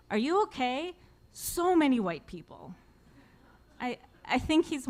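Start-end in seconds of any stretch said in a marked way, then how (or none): 0.1-2.7 louder, higher mock announcement to the room; full volume. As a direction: belt it out for the room to hear. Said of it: "at full volume say".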